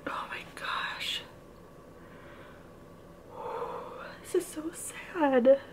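hushed, teary whisper; barely voiced, choked up over a sad page; whispering through tears over a sad book; tearful whisper. Real, not acted. Crying over sad chapter.

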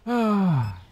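high falling cry. Real, not acted. Cries out during game.

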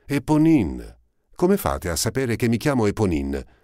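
high, loud, astonished cry; stunned surprise. A narrator's reading. Eponine amazed that Marius knows her name. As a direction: gasp out her own name in shock. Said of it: "con un'aria stupefatta".

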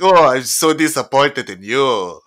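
loud, slow, dramatic disappointed father; disappointed dad. Pretend. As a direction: wail it like a let-down dad. Artist dad scolds son.

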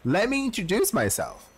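composed in-character line. Shown as a demonstration. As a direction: deliver it straight as the character. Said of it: "That's not how it works".

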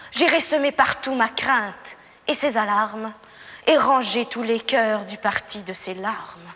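grand classical stage recital; theatrical declamation. Acted. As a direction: declaim like a tragic actress. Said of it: "je trouve que vous déclamez fort bien".

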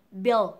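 loud "build" held on dark L, D not yet released; correct build. Shown as a demonstration. Teacher blending sounds, "build" loud up to L. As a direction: draw "build" into the L. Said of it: "Nó sẽ là B".

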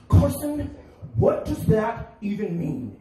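high, loud, baffled dad voice; confused dad. Retold or imitated. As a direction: play the bewildered father calling his son's name. Dad's confused retort acted.

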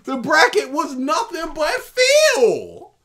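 slow, loud mock bragging; mock shouted boast. Mocking the gamer's bragging, slow loud shout. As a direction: boom it out like a braggart.

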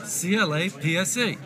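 "C L A P S E" slowly, letter by letter; spelled out. Shown as a demonstration. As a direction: spell "C L A P S E" slowly to correct someone. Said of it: "you say collapse".

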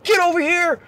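mock instructor summons. Instructor summoning wobbling trainee, high mock order. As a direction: imitate the instructor calling, held back.

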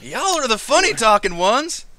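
put-on folksy lizard-folk country accent; country rancher accent. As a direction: retort in a high rancher accent. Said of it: "speaks quite like you all".

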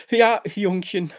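höher und lauter, unter Tränen; schluchzend. A narrator's reading. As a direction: schluchzend zum Mann sprechen. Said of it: "schluchzt sie".

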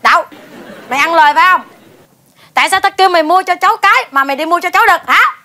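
loud scolding questions; angry accusation. Acted. Wife accuses husband of buying wrong locusts, angry. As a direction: call him to account.

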